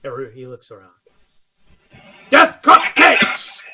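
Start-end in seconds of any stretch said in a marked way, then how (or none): 2.3-3.6 slow, loud, drawn-out proclamation; announcer call. Acted. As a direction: hype the team to the crowd. Announcer introducing team.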